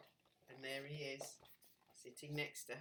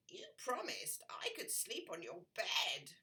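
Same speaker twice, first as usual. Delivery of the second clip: whispering frog. Acted. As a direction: let the frog whisper his wishes.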